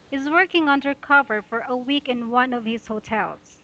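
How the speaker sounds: smooth reading, pausing only at commas; fluent read aloud. Shown as a demonstration. Teacher reading the passage aloud as a model, flowing. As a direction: read it through in flowing phrases. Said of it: "that's how you should read".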